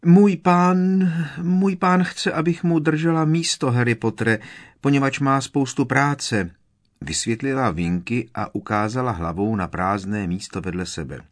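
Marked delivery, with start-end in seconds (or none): 0.0-6.5 very high, loud stammering squeak; anxious elf defending her master; flustered elf. A narrator's reading. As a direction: trip over 'můj pán' nervously.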